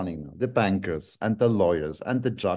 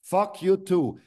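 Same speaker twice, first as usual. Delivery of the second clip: angry outburst; 6 semitones higher than usual. Real, not acted. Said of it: "I'm angry now".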